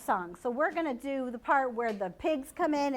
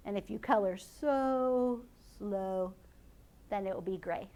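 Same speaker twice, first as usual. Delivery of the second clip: slow; 4 semitones lower, 4 dB quieter than usual. Shown as a demonstration. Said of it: "how a tortoise likes to walk".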